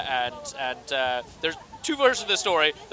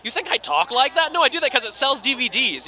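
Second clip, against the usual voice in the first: dropping the act; 6 semitones higher, 3 dB louder than usual. Retold or imitated. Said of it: "it's like".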